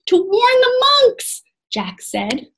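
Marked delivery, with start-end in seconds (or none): 0.1-1.4 high, loud, drawn-out reply; urgent shout back. A narrator's reading. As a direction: yell it back over a distance. Jack yells back while running.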